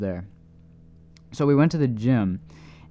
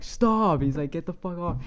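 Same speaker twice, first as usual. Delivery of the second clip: mock yell; 4 semitones higher than usual. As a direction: imitate a friend yelling in protest, voice jumping up. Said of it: "He's, like, yelling at him".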